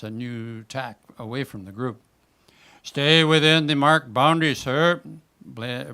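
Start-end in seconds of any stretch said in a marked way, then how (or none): 2.8-5.0 much louder, higher official call; megaphone blare. Acted. Kiosk attendant blaring at the salmon over the megaphone. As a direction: bark the rule out over a loudspeaker. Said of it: "blares a voice over the megaphone".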